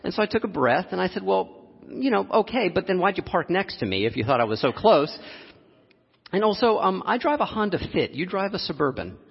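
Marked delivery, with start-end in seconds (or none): 1.2-9.2 calm, even reply with a wry edge; calm retort. Retold or imitated. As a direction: answer him calmly and dryly. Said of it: "I said this very calmly".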